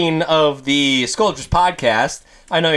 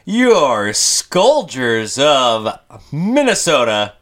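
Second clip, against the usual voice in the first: ringmaster; 3 dB louder than usual. Pretend. Podcast intro announcing hosts.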